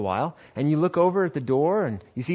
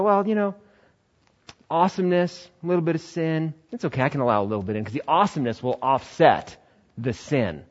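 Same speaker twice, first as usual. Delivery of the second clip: smug rationalising; 2 semitones higher, 3 dB quieter, faster than usual. Acted. Young man justifying sin.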